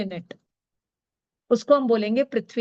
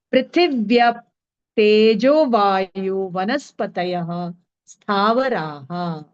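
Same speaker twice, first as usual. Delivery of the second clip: slow sutra recitation; 2 semitones lower, slower than usual. Shown as a demonstration. Reading out the next sutra.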